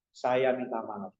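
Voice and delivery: low, slow, gentle apology; permintaan maaf gentle. Shown as a demonstration. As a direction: model a humble apology, slowly and low. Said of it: "kita harus gentle". (minta maaf dengan rendah dan pelan)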